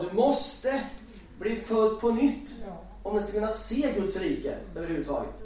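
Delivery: gentle, not harsh. Retold or imitated. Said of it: "Det var inget hårt måste".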